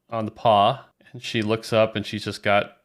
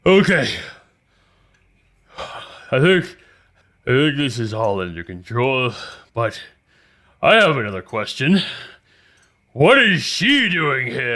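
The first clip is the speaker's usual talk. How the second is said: higher and louder, out of breath and fed up; exasperated Galago; 3 semitones higher, 4 dB louder than usual. Acted. Galago to the party, exasperated on seeing Lily. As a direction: bluster in, exasperated and demanding. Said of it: "he's exasperated".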